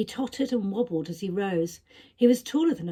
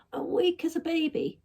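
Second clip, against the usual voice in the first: weak frail voice; 9 semitones higher than usual. A narrator's reading. Ill creature speaks weakly.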